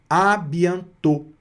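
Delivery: "à bientôt" ending on a closed O. Shown as a demonstration. Teacher shows circumflex O, "à bientôt" with closed final vowel. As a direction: say "à bientôt" slowly, closing the last O. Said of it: "vai pronunciar também como se fosse".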